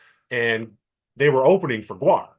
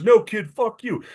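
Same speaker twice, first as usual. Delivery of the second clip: loud, slow, menacing comeback; mock sheriff threat; 10 semitones higher, 6 dB louder, slower than usual. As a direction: lean in and drawl it down at the kid, loud. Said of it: "he's the big fat Southern sheriff".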